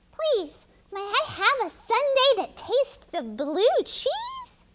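high, tiny, squeaky mouse voice. Reading a story aloud, a hungry mouse orders at the ice cream store; squeaky mouse voice. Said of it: "a mouse who squeaked".

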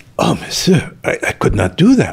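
mock, acted-out gasping. Retelling a man's reply to his breakfast request, imitating a gasp.

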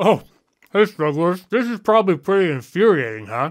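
talking with a full mouth, chewing. Greeting viewers while eating peanut butter, talking with a mouth full. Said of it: "talk with a mouthful of peanut butter".

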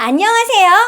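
strained, thin, tight, forced cartoon voice. Demonstrating tense, tightened vocal folds, greeting in a forced tight cartoon voice. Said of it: "애니메이션 목소리를 억지로 냈습니다".

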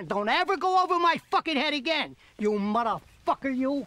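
shouting. Character yells at another man. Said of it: "His Midwest accent gone when he's yelling".

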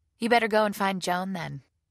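very loud, matter-of-fact. The narrator telling a man to leave before a date arrives, matter-of-fact. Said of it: "I said in a matter-of-fact voice".

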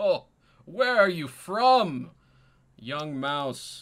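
booming words through hearty laughter, very loud. The king answers a visitor's awkward bow; King Zipateep laughing while talking. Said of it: "he starts laughing".

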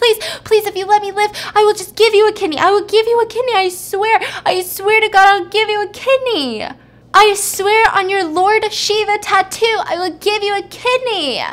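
very high-pitched, screaming, begging plea. Retelling a story of a man about to lose his kidneys, imitating a screaming plea. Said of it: "he starts screaming and he's like".

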